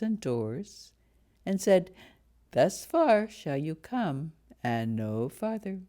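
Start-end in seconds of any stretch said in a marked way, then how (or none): none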